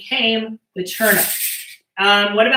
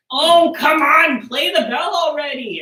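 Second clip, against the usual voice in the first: mock kids pleading; 5 semitones higher, 3 dB louder than usual. Kids nagging their teacher to play the bell, mock whine. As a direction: pretend to be the impatient kids. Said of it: "you guys scream at me and you're like".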